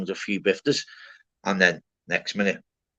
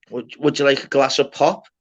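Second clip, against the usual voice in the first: nan voice; 4 semitones higher, 4 dB louder than usual. Retold or imitated. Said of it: "my nan's voice".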